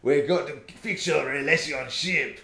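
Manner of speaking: high, hammed-up self-help doctor voice; over-the-top Doctor Hakim. Telling her co-host about the game's talking book, high hammed-up guru voice. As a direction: ham it up like a pushy relationship guru. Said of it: "like, way over the top".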